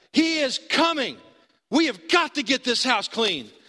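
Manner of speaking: irritated, insistent. Retelling being woken at 1:30 in the morning by her, imitating her aggravation. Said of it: "she starts getting aggravated with me".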